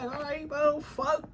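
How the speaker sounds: a hint of a careless ruler laying down the law; voicing the Queen of Swords. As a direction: talk down to everyone as the queen. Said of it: "she like".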